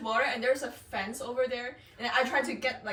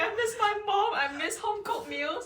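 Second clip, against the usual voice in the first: mock crying; 10 semitones higher than usual. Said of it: "I was crying".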